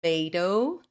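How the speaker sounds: American "Tomato" with "may" in the middle; American pronunciation. Shown as a demonstration. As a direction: say Tomato as "tuh-MAY-doh". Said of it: "Essa é a diferença entre eles".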